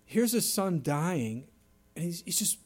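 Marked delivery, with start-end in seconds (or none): 2.0-2.6 hushed, whispered aside. Real, not acted. Preacher whispering the father's distress, hushed. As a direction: drop to a breathy hush.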